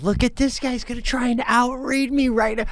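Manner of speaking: incredulous. Retold or imitated. Mimics rival's competitive thought.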